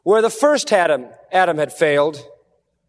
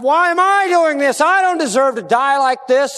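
self-pitying doubt; 5 semitones higher than usual. Retold or imitated. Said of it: "Satan was trying to turn it".

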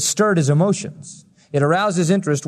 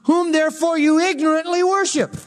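reading out the inscription; 10 semitones higher than usual. Retold or imitated. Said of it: "I found an altar with this inscription".

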